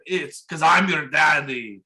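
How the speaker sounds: put-on slow Austrian-accented reveal. Dad takes off the visor, imitated Austrian accent. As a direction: imitate an Austrian action star, drawn out. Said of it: "he's still talking in an Austrian accent".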